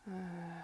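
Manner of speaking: breathy open uh from the back of the throat; vocalized uh. Shown as a demonstration. Mantra teacher demonstrating the first vowel sound. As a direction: sound Uh on the exhale, mouth slightly open. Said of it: "on the exhale, you're gonna begin to vocalize".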